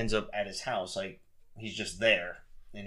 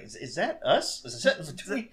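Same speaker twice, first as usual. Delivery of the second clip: imitating an excited kid; 6 semitones higher than usual. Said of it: "they both get excited about it".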